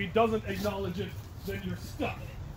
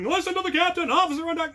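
hushing officers; 10 semitones higher, 4 dB louder, faster than usual. Retold or imitated. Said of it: "officers going".

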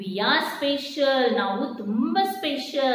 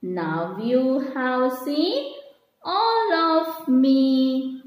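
very slow recitation with drawn-out words; poem reading; much slower than usual. Shown as a demonstration. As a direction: recite it line by line for children to follow. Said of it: "we are going to read that poem". (ನಿಧಾನವಾಗಿ ಎಳೆದು ಪದ್ಯ ಓದುವುದು)

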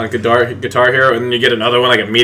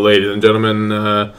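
run-on captain patter without stopping; pilot announcement. Pretend. The speaker doing the pilot voice for the mic, steady captain drone. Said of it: "do a pilot voice".

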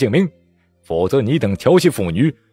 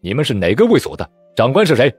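stern demand; 4 semitones higher, 5 dB louder than usual. Acted. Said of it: "沉声道".

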